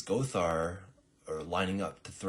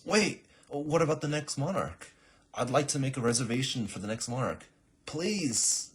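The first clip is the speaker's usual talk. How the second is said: loud, much higher desperate begging; pleading plea; 8 semitones higher, 7 dB louder than usual. Acted. Shadowheart begs the clerk for a reservation, loud and pleading. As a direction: beg to book the next monarch.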